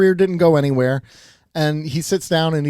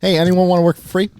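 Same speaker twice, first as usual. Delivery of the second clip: mock calling out; 3 semitones higher, 5 dB louder, faster than usual. Mock call out for free workers.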